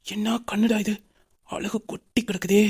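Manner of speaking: slow, soft, smitten murmur; hushed admiration. Acted. Man marvels at a pretty woman to himself, hushed admiration.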